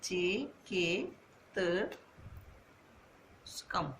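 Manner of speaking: चिकित्सकम whispered very slowly, syllable by syllable; whispered dictation. Shown as a demonstration. Teacher writing the answer while whispering it, very slow. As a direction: breathe चिकित्सकम out slowly as you write. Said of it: "वैद्यम का समानार्थी शब्द क्या है?".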